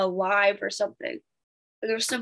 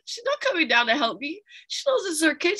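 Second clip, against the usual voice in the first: ordinary talk, nothing marked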